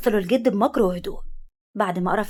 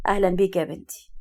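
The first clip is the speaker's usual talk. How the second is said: tender. A narrator's reading. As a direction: welcome her gently, like a grandfather. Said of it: "ابتسم لها بحنان وقال".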